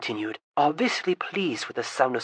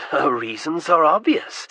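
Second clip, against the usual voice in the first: calm; 3 dB louder than usual. Acted. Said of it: "said Alex calmly".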